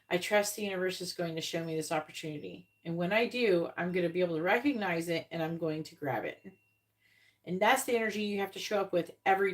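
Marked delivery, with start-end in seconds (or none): 0.1-6.4 calm trusting voice. Retold or imitated. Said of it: "instead of going".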